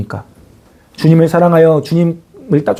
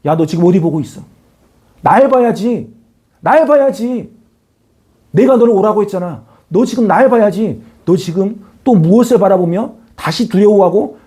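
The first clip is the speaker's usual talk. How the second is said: voicing Jesus gently chiding. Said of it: "예수님이 말씀하고 있습니다".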